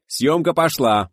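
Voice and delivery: high, stretched director's call; loud command. A narrator's reading. Director starts the shoot, drawn-out commanding call. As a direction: set the whole crew going. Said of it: "скомандовал Гайдай".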